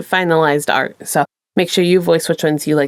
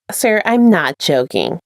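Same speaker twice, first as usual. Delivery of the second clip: insistent attendant; 3 semitones lower, slower than usual. Acted. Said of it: "she insisted".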